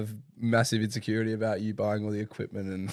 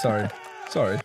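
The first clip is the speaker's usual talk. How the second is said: trying out a Canadian "sorry"; mock Canadian pronunciation; put-on Canadian accent. Shown as a demonstration. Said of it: "Apparently this is".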